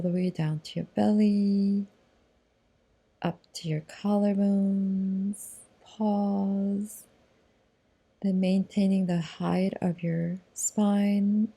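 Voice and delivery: unhurried, measured yoga-teacher guidance with long pauses; lightly held meditation-guide voice; guided meditation. Acted. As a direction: lead them gently into the breath, drawing out phrase endings. Leads breathing meditation.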